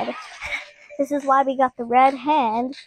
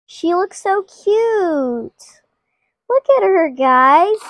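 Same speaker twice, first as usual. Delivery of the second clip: cooing; 5 semitones higher, 3 dB louder than usual. Real, not acted. Cooing over cute toy.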